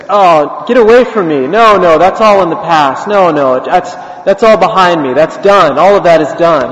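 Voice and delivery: mildly agitated, insistent denial; acted brush-off. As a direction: wave off someone from your past. Beggar brushes off old classmate.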